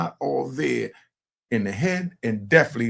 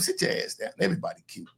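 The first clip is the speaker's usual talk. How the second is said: stern grandpa; 4 semitones higher, 3 dB quieter, faster than usual. Retold or imitated. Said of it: "And I'm gonna tell him".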